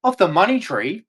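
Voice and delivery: sneering mimicry of a smug critic; a hint of sarcastic sing-song; mocking quote. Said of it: "the first thing yous come up with".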